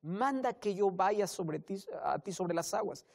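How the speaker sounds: very slow, high, hesitant plea; doubting Peter. Retold or imitated. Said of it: "Pedro le dice".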